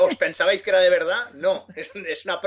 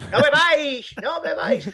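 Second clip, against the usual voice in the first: stern shout; 11 semitones higher than usual. Acted. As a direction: shout the warning like a serious clown. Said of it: "todo serio". (advertencia seria a gritos)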